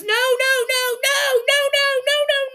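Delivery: high, rapid stream of no; insistent denial. Retold or imitated. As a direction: cut them off, protesting. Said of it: "And Michael says".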